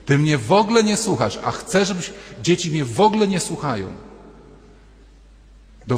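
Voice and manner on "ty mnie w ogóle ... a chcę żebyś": frustrated husband. Retold or imitated. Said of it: "mężczyzn w kółko mówi".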